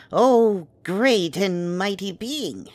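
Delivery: slow, loud, high opening of mock reverence; buttering up a dragon with pompous praise; grandiose flattery. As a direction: lay the flattery on thick and slow. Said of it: "Dragons like being spoken to like they're the most important thing".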